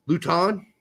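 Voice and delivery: "Luton" as loo-TAHN, questioning; alternative pronunciation. Shown as a demonstration. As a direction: say "Luton" with an open "ahn" ending. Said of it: "how many different ways do you think Luton could be pronounced".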